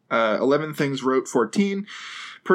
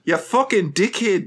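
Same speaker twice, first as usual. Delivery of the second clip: higher mock Kiwi accent; New Zealand accent; 5 semitones higher than usual. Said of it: "that's more in New Zealand".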